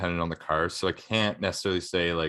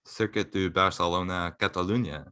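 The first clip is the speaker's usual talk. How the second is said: lightly put-on French-Spanish accent. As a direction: add a little French-Spanish flair. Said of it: "put a little French Spanish on there".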